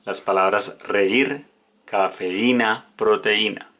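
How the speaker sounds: reír, cafeína read slowly with each vowel apart; teacher splits reír and cafeína into clear syllables; careful hiatus reading. Shown as a demonstration. Teacher showing students the hiatus, slow and careful. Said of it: "Con las letras E I".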